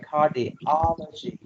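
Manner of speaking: Cardiology with the stress on "ol": car-di-OL-o-gy; stress on the third syllable. Shown as a demonstration. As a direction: lean on the "ol" in Cardiology, the rest light. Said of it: "on the third syllable".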